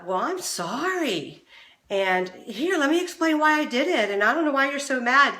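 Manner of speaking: sorry, but really justifying yourself; defensive tone. Retold or imitated. Spouse caught out, answering partner with defensive excuses. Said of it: "kind of tone of voice".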